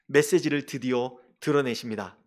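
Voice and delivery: ordinary delivery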